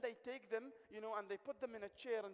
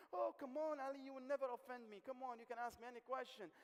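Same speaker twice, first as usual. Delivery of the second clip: a touch higher, a hint of a reassuring woman; lightly voiced Juanita; 6 semitones higher than usual. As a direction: lightly play the eager lady, brushing it off.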